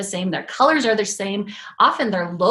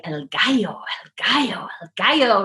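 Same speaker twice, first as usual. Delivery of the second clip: playful repetition. Retold or imitated. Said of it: "we kept saying it over and over".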